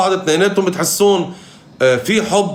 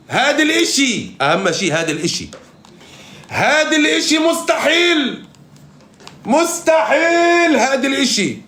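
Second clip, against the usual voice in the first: Jackie Chan's answer; 4 semitones higher than usual. Retold or imitated. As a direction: stretch the words out in a raised imitating voice. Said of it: "جاكي شان إذا بتقول له".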